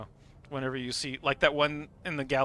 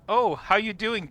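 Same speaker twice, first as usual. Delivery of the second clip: high, louder mock hello; teasing greeting; 7 semitones higher, 5 dB louder than usual. Friend greeting someone by a mocking nickname, high teasing voice. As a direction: greet them with a teasing lift.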